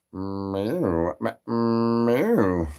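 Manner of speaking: quiet, mewing cat sounds; soft cat meow. Acted. Answering the chant with soft cat meows.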